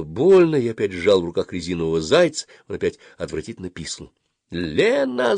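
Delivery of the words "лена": very high cry of a name; yelled call. A narrator's reading. Dentist summoning her helper, high-pitched yell. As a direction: shriek for help, without much volume. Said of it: "заорала врачиха".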